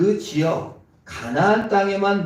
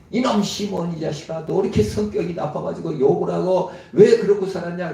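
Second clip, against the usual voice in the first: a stern father dressing down his son; father voicing a scolding to his son, mildly stern; 3 semitones higher, 4 dB louder than usual. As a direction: scold him like an angry dad.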